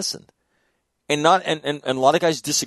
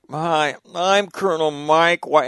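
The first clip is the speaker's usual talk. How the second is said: imitating the colonel; 2 semitones higher, slower than usual. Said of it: "uneven meter to his voice".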